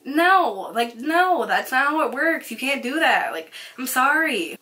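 insistent no, pitched a little up; retold exasperated refusal; firm refusal. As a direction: shut down the customer's demand, each no falling. Retold refusal to angry customer.

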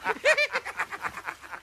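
a short giggle after singing; pleased giggle. Acted. Pumuckl giggling after his admiral song, pleased giggle. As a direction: giggle at your own joke.

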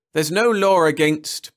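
indignant. A narrator's reading. Perry protesting indignantly to the judge. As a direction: protest with outrage. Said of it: "Perry began indignantly".

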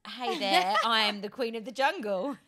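lightly done Australian accent. Shown as a demonstration. Host setting a line for the guest, Australian accent. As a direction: try an Australian greeting. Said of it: "And Australian".

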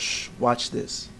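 slow whispered tease; whispered shush. Retold or imitated. Wrestler hushing the crowd in a slow whisper. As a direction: hush them and tease the trick slowly. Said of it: "He goes".

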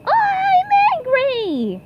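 slow, drawn-out angry cry. Acted. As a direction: stretch the words out to sound angry. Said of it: "Get angry".

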